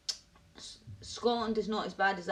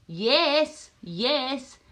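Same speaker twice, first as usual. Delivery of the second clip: excited yes; 5 semitones higher, 7 dB louder than usual. Real, not acted. Eagerly agrees with the chat.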